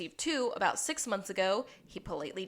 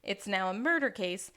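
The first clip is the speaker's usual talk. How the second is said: mock stern reply; 4 semitones higher, 4 dB louder than usual. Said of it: "she's like".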